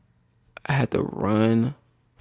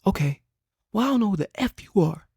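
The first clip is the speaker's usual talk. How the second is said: mock furious coach; 13 semitones higher than usual. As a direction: sneer like an angry coach. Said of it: "He spasmed, right, going crazy".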